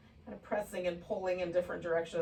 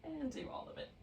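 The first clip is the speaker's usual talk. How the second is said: laughing; 6 semitones higher, 4 dB quieter, faster than usual. Real, not acted. Laughing mid-sentence.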